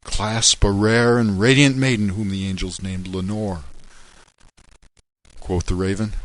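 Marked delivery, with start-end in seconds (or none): 0.0-3.6 loud, high cry of grief; anguished plea. A narrator's reading. Grieving man cries out to the raven, loud anguish. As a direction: hurl the word at the bird. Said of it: "tell this soul with sorrow laden".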